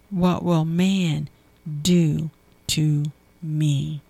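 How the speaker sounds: slowed-down scripture line; slow emphatic question. Shown as a demonstration. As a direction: draw out man slowly. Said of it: "repeated slowly".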